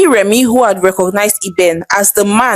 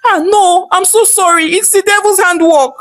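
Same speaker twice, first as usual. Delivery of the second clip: crying; 10 semitones higher than usual. Acted.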